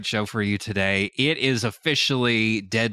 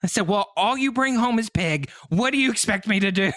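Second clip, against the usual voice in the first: sweet housewife voice; 12 semitones higher than usual. Retold or imitated. Wife greets husband coming home in Minecraft, high and sweet. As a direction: play the doting wife, lilting high. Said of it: "this exchange happened".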